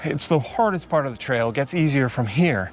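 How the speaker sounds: huffing and puffing after the uphill climb; panting between phrases, winded; out of breath. Real, not acted. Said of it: "I apologize if I'm huffing and puffing".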